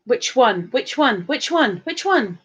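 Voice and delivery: each repeat stepping up in pitch; playful repeated question. Pretend. Same question repeated, pitch climbing.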